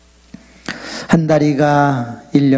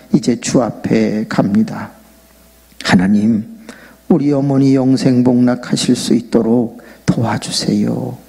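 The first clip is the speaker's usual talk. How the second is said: deathbed prayer. Retold or imitated. Son prays at deathbed.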